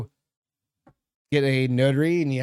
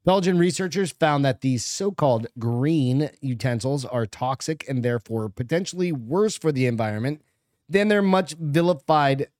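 news read. Acted. Reads article aloud.

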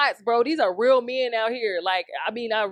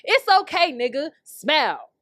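slow slogan read; 4 semitones higher than usual. Shown as a demonstration. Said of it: "I should make that t-shirt".

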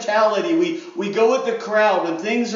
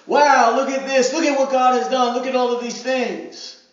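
higher, louder burst of wonder; mock amazed wow; 3 semitones higher, 4 dB louder than usual. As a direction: gush like a thrilled believer. Crowd marveling at God's works.

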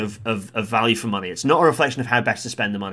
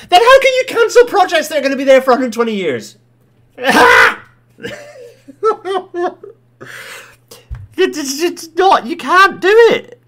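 much higher, louder incredulous rant; real frustration boiling over; exasperated outburst; 7 dB louder than usual. Real, not acted. Venting at government cancelling projects.

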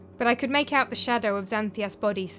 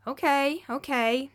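gently; 5 semitones higher, slower than usual. A narrator's reading. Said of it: "said Aristo gently".

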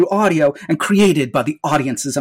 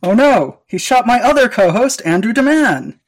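mock panic; 5 semitones higher than usual. Second co-host shot.

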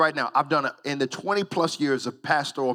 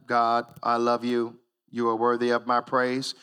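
going through the motions; 7 semitones lower than usual. Pretend. Worshipper mouthing praise through the motions. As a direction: pray it by rote, half-hearted. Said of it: "go through the motions".

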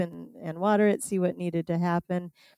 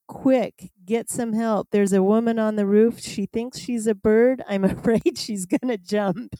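mildly urgent retold alarm; startled visitor; 2 semitones higher than usual. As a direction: play the worried passerby, a touch of laughter creeping in. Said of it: "He was extremely startled".

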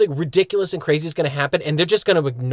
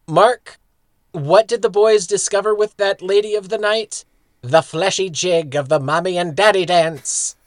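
Monarch; 3 semitones higher, 3 dB louder than usual. Retold or imitated. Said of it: "I have one line from the Monarch".

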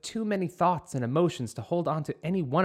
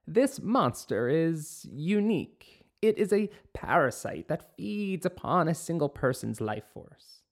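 slow ominous witch; 4 semitones higher than usual. Acted. Witch warns of the monster.

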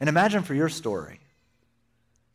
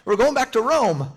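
confused companion; 9 semitones higher, 4 dB louder than usual. Retold or imitated.

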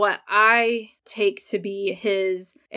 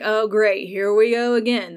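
louder, sarcastic eye-roll groan; mock exasperation; 5 dB louder than usual. Fan mocking the couple's usual fight, exasperated. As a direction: sigh it out like fans who've seen this before. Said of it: "we feel like".

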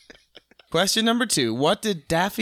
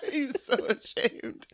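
laughing; 4 semitones higher, 8 dB quieter, slower than usual. Real, not acted. Wheezing laughter.

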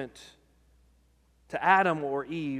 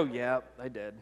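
meek confession; 6 semitones lower, 6 dB quieter than usual. Retold or imitated. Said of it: "Adam would go".

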